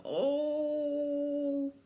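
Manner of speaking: drawn-out pained groan; a long moan of toothache. A narrator's reading. Crocodile in pain heard by creatures, groaning. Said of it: "hear the noise going".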